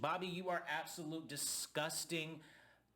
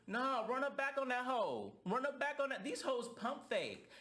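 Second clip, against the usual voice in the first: higher, urgent egging on; hyped up; 9 semitones higher than usual. Real, not acted. Vlogger urging Davion to fight back, high and fired up. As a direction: push him to go back and fight.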